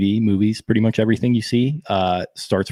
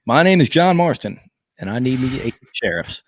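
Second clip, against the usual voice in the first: mock John Marston; 3 semitones higher than usual.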